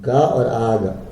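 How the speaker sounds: "गा" and "आग" spelled out slowly, each vowel drawn out; teacher slowly contrasting "गा" with "आग"; slow pronunciation demo. Shown as a demonstration. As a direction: say "गा और आग" slowly, sounding the आ clearly in both. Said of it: "आ में उच्चारण हुआ".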